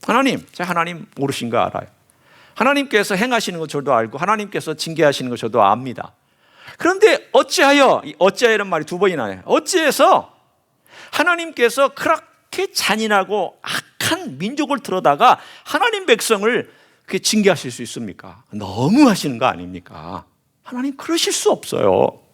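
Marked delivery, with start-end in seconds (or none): 0.0-8.0 talking back. Retold or imitated. Habakkuk talking back to God, indignant protest. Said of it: "대들고 있습니다". 9.4-22.2 higher, pleading outcry of disbelief; indignant protest. Retold or imitated. Habakkuk confronting God over the cruel nation, higher-pitched indignation. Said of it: "대들고 있습니다".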